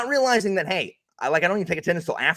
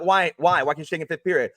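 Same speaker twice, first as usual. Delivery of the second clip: teacher voice; faster than usual. Retold or imitated. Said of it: "That's how I talk as a teacher".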